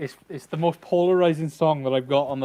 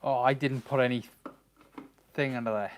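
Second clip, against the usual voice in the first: muffled helmet voice; inside a helmet; 3 semitones lower, 6 dB quieter than usual. Real, not acted. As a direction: speak through the welding mask. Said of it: "Helmet voice, A-okay".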